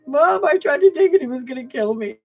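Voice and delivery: put-on high breathless kid voice; hammed-up thrilled teenager; excited son. Son telling mom the dog nearly attacked him, high excited voice. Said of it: "He was like".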